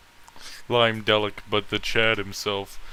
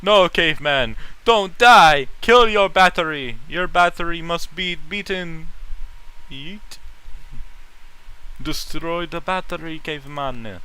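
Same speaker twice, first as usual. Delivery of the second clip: hammed-up shouting at a dying phone battery; mock yell; 5 semitones higher, 4 dB louder than usual. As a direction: bark orders at the battery like a caveman. Yelling at phone battery as caveman.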